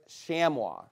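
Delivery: chamois said the French way, sham-wah; French-style pronunciation. Shown as a demonstration. Teaching the group the proper French way. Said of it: "really is what it's supposed to be pronounced".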